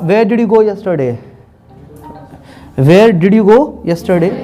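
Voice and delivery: "Where did you go yesterday?" run together as one phrase; joined up. Shown as a demonstration. Teacher showing the shrunk, connected version. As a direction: shrink the question into one smooth phrase. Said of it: "तो इसको मैं ये बोल दूंगा".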